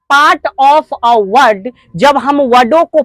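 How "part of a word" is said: part of a word, said very slowly; slow definition. Shown as a demonstration. Teacher explaining syllables, very slow delivery. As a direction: stretch each word of the phrase. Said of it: "जब part में".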